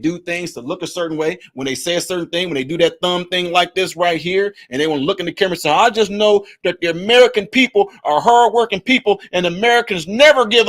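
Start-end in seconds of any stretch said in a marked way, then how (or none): 5.7-10.7 louder, put-on politician speech voice; lightly hammed-up campaign speech; mock politician. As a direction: ham up a camera-ready politician. Imitating politician on camera.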